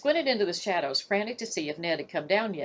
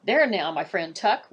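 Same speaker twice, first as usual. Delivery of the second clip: cooing; 4 dB louder than usual. Acted. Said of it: "Warder Marsh cooed".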